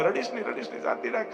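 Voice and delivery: soft, hushed comforting; calm the lost child gently; soothing. Retold or imitated. Father's friend hushing the crying boy, soft and soothing.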